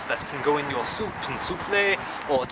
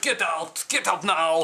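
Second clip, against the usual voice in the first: sharp shout to throw someone out; slower than usual. Acted. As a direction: yell them out of the room.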